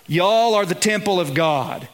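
Y'all said with a light Southern drawl; preacher slipping into a Southern y'all. Shown as a demonstration. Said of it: "in the Southern drawl".

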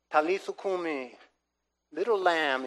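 softly voiced tender call. Jesus to the dead little girl, tenderly. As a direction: speak gently, as to a sleeping child.

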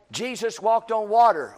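a touch of teacher announcing a Bible fact; matter-of-fact pulpit statement; preacher stating a fact. Retold or imitated. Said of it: "They're just gathering, you know, like".

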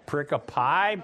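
"Pericope" ending in a long "pie" sound; tentative Latin-style plural, "Pericope" ending like "eye"; guessed plural pronunciation. Shown as a demonstration. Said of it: "how do you make it plural".

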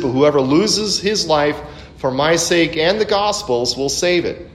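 a brisk, fuller reading voice; scripture read with rising force. Acted. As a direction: read the verses out to the congregation. Reads scripture aloud.

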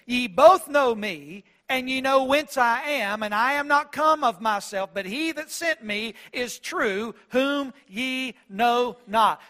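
ringing out loud and slow to a crowd; loud proclamation. Retold or imitated. Jesus crying out in the temple, loud, slow proclamation. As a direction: herald it to the whole temple. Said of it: "He said this in a very loud voice".

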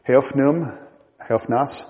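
put-on Heofnum, Heofnas read in Old English; Old English words read out. Shown as a demonstration. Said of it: "two words for heaven in Old English".

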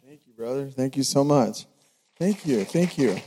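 hoarse, strained voice; losing his voice, pushing through; voice giving out. Real, not acted. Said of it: "I'm losing my voice".

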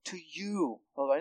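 softened, intimate address to God; quiet, personal prayer. Acted. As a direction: drop the volume and make it personal. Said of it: "It's getting very personal".

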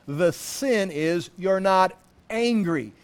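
ordinary talk

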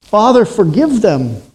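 voice of the blood. Acted. Preacher voicing the blood rising to heaven, exultant. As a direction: ring out each word like a verdict. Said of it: "every drop of blood lifts its voice".

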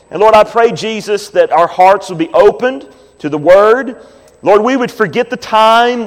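earnest pastor's prayer, rising and fervent; closing prayer. Real, not acted. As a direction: pastor praying over the congregation, fervently.

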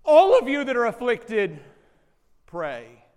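preacher echoing the apostle to the church, loud and emphatic; preaching emphasis. Acted. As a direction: press it on the whole room. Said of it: "echo James's undertone here".

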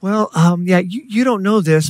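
high, halting confession; hesitant secretary. Retold or imitated. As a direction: ease awkwardly into a secret. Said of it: "She goes".

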